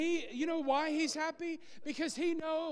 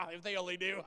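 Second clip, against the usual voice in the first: condescending; 8 semitones lower, faster than usual. Retold or imitated. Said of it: "we do it condescending".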